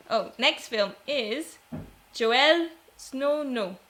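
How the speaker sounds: slowly sounding out "Joel Snow No" syllable by syllable; slow careful try at a tricky name; careful name pronunciation. Shown as a demonstration. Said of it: "Did I say it right?".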